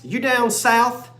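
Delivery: slow Southern drawl question; Southern accent. Pretend. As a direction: ask it like a Southerner. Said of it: "I love the accent".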